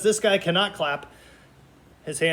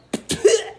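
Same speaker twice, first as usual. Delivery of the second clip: puppet spitting cough; 4 dB louder than usual. Pretend. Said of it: "He's gonna spit this one out".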